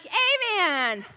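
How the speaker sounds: sarcastic amen with a laugh; mocking amen. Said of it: "They're like".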